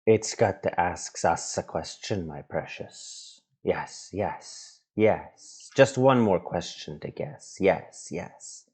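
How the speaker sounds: lightly voiced hissing Gollum, dropping to a breath on precious; a hint of creepy Gollum. Parent reading The Hobbit to kids, lightly voiced Gollum. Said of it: "said Gollum".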